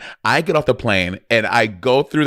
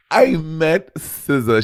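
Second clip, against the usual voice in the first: slow, awed and thrilled; excited; 5 semitones higher, much slower than usual. Real, not acted. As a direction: still buzzing from meeting her. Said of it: "I was so excited".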